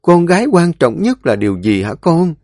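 high, rising scold from the mother. A narrator's reading. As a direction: press her daughter hard on what matters most. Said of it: "bình tĩnh trách móc".

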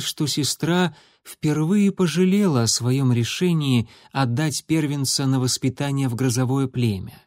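usual speaking voice

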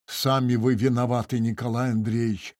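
ordinary delivery, nothing marked

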